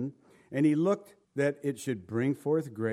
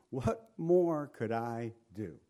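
heartfelt plea; 3 semitones lower, slower than usual. Acted. Dwells on God's heartfelt line.

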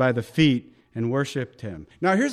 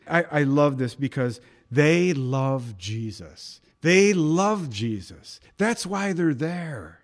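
tender; 2 semitones lower, slower than usual. Real, not acted. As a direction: linger lovingly on each word. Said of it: "tender emphasis on love".

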